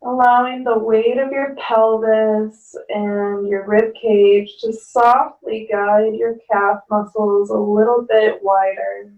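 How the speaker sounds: calm yoga teacher guiding the breath; guided yoga instruction. Acted. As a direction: talk the class gently down into the pose.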